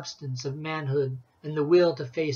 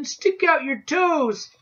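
slow, high repeated scream; screaming again; 10 semitones higher, slower than usual. A narrator's reading. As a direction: stretch out the desperate yell. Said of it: "I screamed at him".

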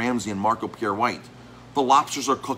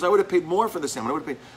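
emphatic quote; 7 semitones higher, faster than usual. Retold or imitated. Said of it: "He goes".

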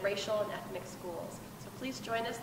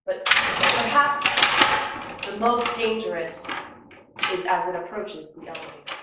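dramatic suspense; 13 dB louder than usual. Acted. The tree's most dangerous moment.

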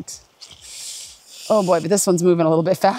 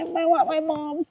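in ice cold water; 7 semitones higher, 6 dB quieter than usual. Real, not acted. Freezing water crossing.

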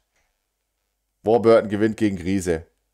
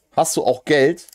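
higher-pitched wifely question; imitated wife; 5 semitones higher than usual. Wife casually asks him for money, imitated higher voice. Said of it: "so kommt die Frau rein".

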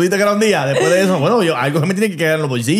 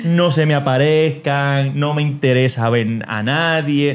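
usual speaking voice

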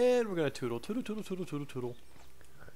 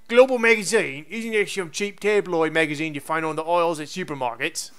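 put-on Cockney accent. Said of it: "it's Cockney".

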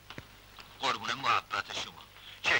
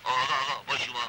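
raised, higher hailing voice; calling out; 3 semitones higher, 4 dB louder than usual. Acted. Captive hailing a departing captor, calling out. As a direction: hail the man to get his attention.

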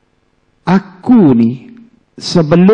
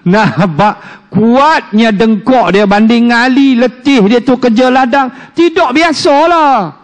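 laughing; 3 semitones higher than usual. Real, not acted. Preacher laughs at story.

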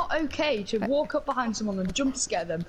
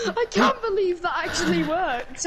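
laughing; 4 semitones higher than usual. Real, not acted. Laughing at killing character.

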